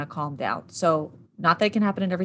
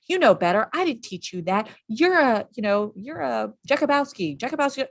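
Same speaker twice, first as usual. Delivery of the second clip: mock parental scolding; 4 semitones higher than usual. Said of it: "'Cause what do we say?".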